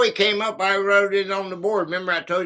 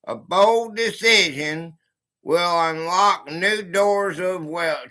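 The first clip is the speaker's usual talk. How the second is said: slow fortune reading; slower than usual. Acted. Rereads fortune slowly.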